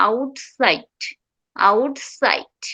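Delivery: outside as "out-side", T stopped before S; held T. Shown as a demonstration. Teacher demonstrating T joined to side, held T. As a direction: hold tongue up on the T of outside. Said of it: "outside এ টিটা নিচে নামবে না".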